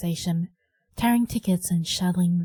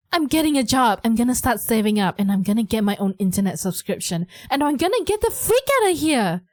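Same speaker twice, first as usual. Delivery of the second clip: defiant shouting; 3 semitones higher than usual. Acted. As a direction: throw your plan in mom's face. Teen declaring independence to mom.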